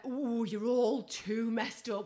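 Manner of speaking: slow, drawn-out mock dismay. Clubber sizing up the crowd, in drawn-out dismay. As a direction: draw it out, dismayed at the state of them.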